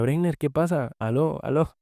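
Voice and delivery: a mother checking the silent phone line, up high; worried mother. Retold or imitated. Voicing his mother on the phone.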